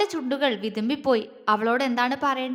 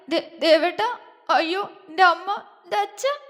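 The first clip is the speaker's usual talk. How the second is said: hysterical crying; 5 semitones higher than usual. A narrator's reading. Girl keeps crying hysterically.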